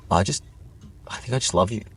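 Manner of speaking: deadpan, understated declaration; blank-faced confession. Retold or imitated. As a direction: say it with no show of feeling. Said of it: "just told me blank face".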